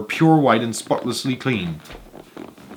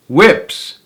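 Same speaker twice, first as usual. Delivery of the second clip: higher, louder outraged rise; shocked cry; 6 semitones higher, 5 dB louder than usual. A narrator's reading. Veruca reacting to the whip room, shocked cry. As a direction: gasp the word in shock. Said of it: "cried Veruca Salt".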